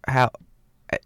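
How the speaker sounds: put-on loud, faltering stab at a British accent landing in New Zealand; botched New Zealand accent. Co-host asks traveler about England, botched New Zealand accent. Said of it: "I'm doing, like, a fucking New Zealand accent".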